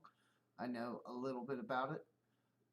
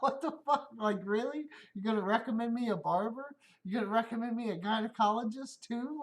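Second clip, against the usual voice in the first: loud, high, laughing outrage; laughing disbelief; 7 semitones higher, 5 dB louder than usual. Real, not acted. Speaker laughs at the coworker's barber suggestion, loud and disbelieving. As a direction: crack up while ranting.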